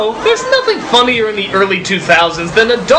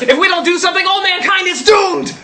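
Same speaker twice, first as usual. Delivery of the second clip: shout; 5 semitones higher than usual. Acted. Echoing the angel's warning.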